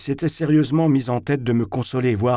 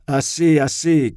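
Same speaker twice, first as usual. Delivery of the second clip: loud, higher shout; 4 semitones higher, 5 dB louder than usual. A narrator's reading. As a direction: cut the quarrel short. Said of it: "criait Zverkov". (crier fort pour faire taire)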